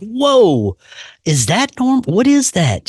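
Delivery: high, wondering mock surprise; amazed. Seeing his aura photo, high imitated amazement. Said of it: "I'm like".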